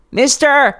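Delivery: high, loud desperate cry; desperate scream. Acted. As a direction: scream to stop the rider. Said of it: "Cleft screamed".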